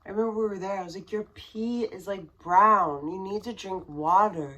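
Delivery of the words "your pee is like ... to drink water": urgent warning. Retold or imitated. Urging drunk husband to drink water.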